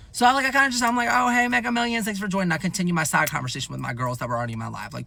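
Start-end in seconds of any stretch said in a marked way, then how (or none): 1.1-2.5 polite greeting. Retold or imitated. Polite greeting to live viewer.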